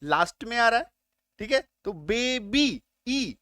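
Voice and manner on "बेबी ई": "बेबी" then its long "ई" alone; teacher picking out the ee in "बेबी"; final ee sound. Shown as a demonstration. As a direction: sound out "बेबी" and isolate the closing "ई". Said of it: "ई का sound".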